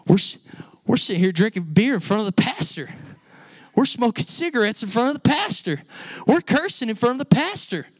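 a rough country guy caught out, hooting in disbelief; amazed laughing boss. Retold or imitated. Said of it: "He goes".

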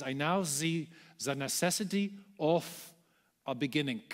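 a lightly voiced Einstein with a German accent. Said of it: "addresses the media in his heavy German accent".

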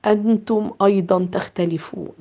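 softly muttered. Acted. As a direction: murmur it under your breath. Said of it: "يتمتم".

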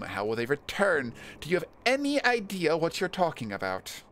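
lightly acted indignant objection, building to an exasperated question; indignant character. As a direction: protest the crime, rising to an incredulous peak. Voices indignant game character.

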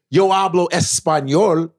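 proper Spanish. Shown as a demonstration. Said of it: "but it's quick".

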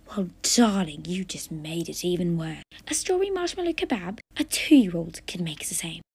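a lightly voiced snooty food judge tearing into the cook; a hint of a theatrical TV judge, scornful and dramatic; haughty judge. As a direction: scold the contestant like a disdainful critic.

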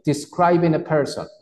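"Describing a person" said carefully for repetition; teacher's clear model phrase; model for repeating. Shown as a demonstration. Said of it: "repite después de mí".

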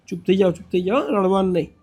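soft, hushing reassurance; soothing. Real, not acted. Man tells the crying grandmother to hush, soothing.

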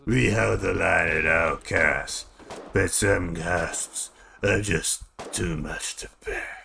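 slow, haunted war veteran, drops to a whisper; shell-shocked soldier. Acted. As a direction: recall the horror slowly, then steel up. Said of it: "That's my interpretation".

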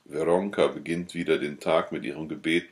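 usual speaking voice

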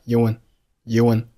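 "un" as "you and" run together; linked words. Shown as a demonstration. Teacher demonstrating linking for learners, "you and" linked. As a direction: blend "you and" into one, ending on n. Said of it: "You和and连读成了".

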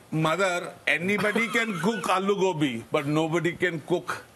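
acted daughter's protest with an Indian accent. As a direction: play the line up in an Indian accent. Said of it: "but I can do an Indian accent".

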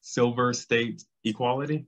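slowed down, each word separate. Real, not acted. Repeating the organization's name for the interviewer, slowly. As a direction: say it slowly and distinctly for the listener. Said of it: "Could you say it a little slower?".

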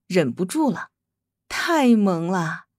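slow, low gush over cuteness. Acted. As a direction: melt over how cute it is. Overwhelmed by cuteness.

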